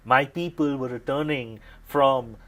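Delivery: loud, angry defence of his people; heated reprimand, breaking off at the end; indignant. Acted. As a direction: berate the detective forcefully. Angry lieutenant defends his officers.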